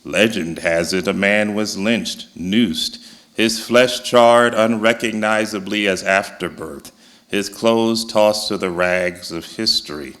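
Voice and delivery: measured poetry reading with long pauses; solemn poem about a lynching, spaced out in short phrases; poem recital. Acted. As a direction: recite it line by line, letting each phrase hang. Reads own poem aloud.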